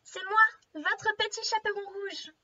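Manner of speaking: Little Red Riding Hood. Acted. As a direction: answer as a young storybook girl.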